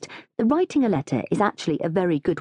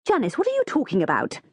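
higher, incredulous question; shocked exclamation; 8 semitones higher than usual. A narrator's reading. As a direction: demand an explanation in disbelief. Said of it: "Mum exclaims".

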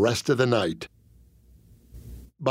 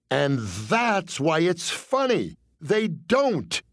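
pleading; 4 semitones higher, much slower than usual. Retold or imitated. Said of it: "I pleaded".

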